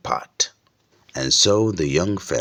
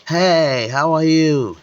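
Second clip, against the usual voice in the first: much higher and louder friendly call; 12 semitones higher, 6 dB louder than usual. Acted. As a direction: shout a greeting across the street. Calls out to a friend.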